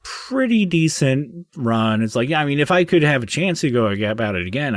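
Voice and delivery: high, cheerful little gnome voice, trailing off; a chatty little gnome remembering his life; gnome spirit. Acted. Gnome spirit chatting to Hank at the gate, high and cheerful. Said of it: "He goes".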